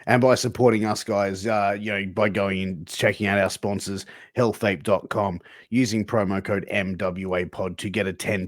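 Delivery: brisk podcast ad read; sponsor read. Real, not acted. Host covering technical difficulties with a sponsor read, in brisk ad style. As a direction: keep it moving through the plug.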